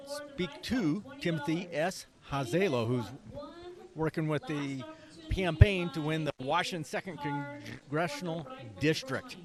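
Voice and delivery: talking with a mouth full of food; words round a bite of food. Real, not acted. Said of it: "I got my mouth full today".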